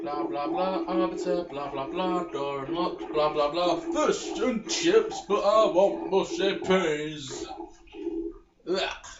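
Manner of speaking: droning mock British blah-blah; a hint of a mock British accent. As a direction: parody the NPC's dialogue in a lazy British accent. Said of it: "in that accent".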